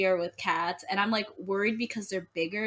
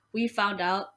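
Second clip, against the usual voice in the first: burping. Real, not acted. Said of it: "I'm just burping".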